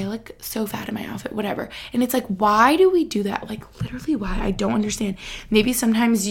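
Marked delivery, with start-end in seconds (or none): 0.0-1.3 whispered mock complaint about herself; mock self-critical whisper. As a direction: breathe it out like a girl dissing her own outfit. Mocking girls' self-talk.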